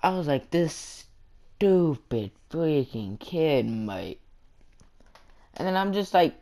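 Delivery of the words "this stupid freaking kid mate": put-on Australian accent. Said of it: "turn Australian there".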